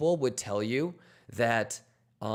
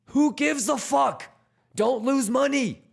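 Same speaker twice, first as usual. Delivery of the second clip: emphatic retort; 13 semitones higher, 4 dB louder than usual. Real, not acted. Scolding traders after the mimic.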